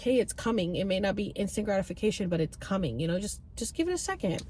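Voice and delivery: a hushed, soothing inner voice; soft reassurance. Retold or imitated. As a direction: coax her gently to wait. Trip voice reassuring her, softly.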